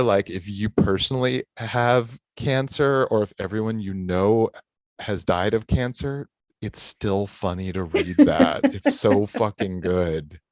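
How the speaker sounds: close-miked, boomy voice; too close to mic. Real, not acted. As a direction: mouth right on the mic. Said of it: "your mic is too close to your face".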